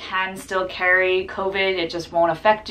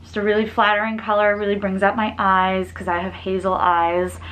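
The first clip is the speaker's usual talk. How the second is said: muffled by cloth mask; speaking behind fabric covering; through a face mask. Real, not acted. Seen 0: Cloth mask covers mouth and nose throughout labelled speech.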